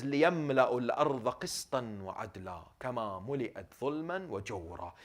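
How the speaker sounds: rapid recitation. Real, not acted. Hadith quoted in Arabic.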